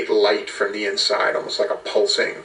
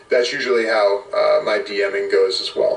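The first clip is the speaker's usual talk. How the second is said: normal talking voice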